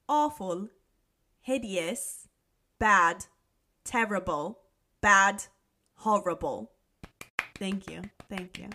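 halting British accent, word by word; attempted British accent. Shown as a demonstration. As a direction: try out a tentative British accent. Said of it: "make me do this in an accent".

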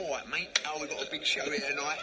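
put-on London accent. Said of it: "That's how they do a London accent".

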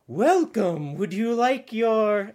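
high, drawn-out Australian fairy greeting; Australian accent. Retold or imitated. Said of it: "she had this Australian accent".

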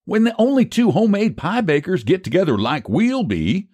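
high-pitched country crowing; triumphant. A narrator's reading. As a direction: crow over your clever plan. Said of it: "said Phineas triumphantly".

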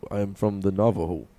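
low caricatured chief voice; lightly put-on, low stereotype voice; stereotypical chief voice. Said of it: "stereotypical Indian chief voice".

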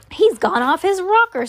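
high, scandalised storybook exclamation; aghast. A narrator's reading. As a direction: cry out as an appalled parent.

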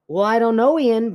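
high, forceful mock Scottish accent; aggressive Scottish accent. Shown as a demonstration. Co-host performing a line to Ian, aggressive Scottish accent. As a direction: attack it in a put-on Scottish accent. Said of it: "Your Scottish is so aggressive".

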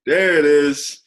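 cheering. Real, not acted. Cheering after the drink is downed.

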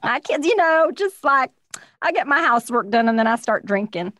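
jokey put-on trashy mom; a hint of a trashy housewife character; mock trashy voice. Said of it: "sounds like such a trashy thing".

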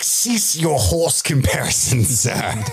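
slow, lofty scolding; prim mock Galadriel. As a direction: haughtily forbid the horse talk. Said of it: "she was like".

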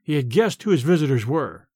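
ordinary delivery, nothing marked

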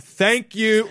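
a mock overloud thank you, pitched high; too loud. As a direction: blurt it out too loudly. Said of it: "too loud".

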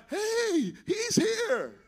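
greeting crowd. Retold or imitated. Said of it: "people are waiting on you when you arrive".

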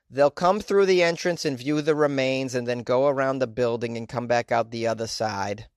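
put-on a light Boston accent on a Tennessee funeral home owner. Vlogger voices the funeral home owner's quote in a mild Boston accent. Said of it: "gave this Tennessee individual a Boston accent".

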